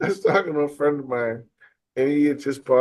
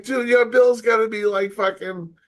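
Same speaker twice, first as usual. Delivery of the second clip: worked-up disbelief; 8 semitones higher, slower than usual. Retold or imitated. Lecturing a friend about his huge bill, worked up. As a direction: hammer home how big the bill must be. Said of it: "I'm like".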